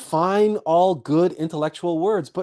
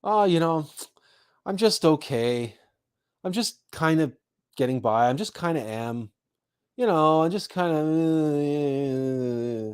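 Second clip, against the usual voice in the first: disdainful, sad okay. Retold or imitated. Imitating bored people answering how are you, flat and sad. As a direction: sigh it out like life is a bit dull. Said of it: "they say that with some disdain, with some sadness".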